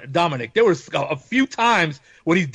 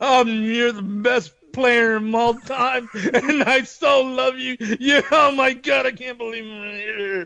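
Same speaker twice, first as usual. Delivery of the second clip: put-on slow, high, gushing drunk fanboy; slurred starstruck praise; 5 semitones higher, slower than usual. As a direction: gush at your idol, tipsy and slow. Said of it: "I know what I'm like when I'm drunk".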